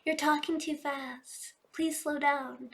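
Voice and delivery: slow, pleading viewer voice; gently mocking complaint from the comments; mock commenter. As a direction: act out a viewer's comment slowly. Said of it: "I can already see in the comments".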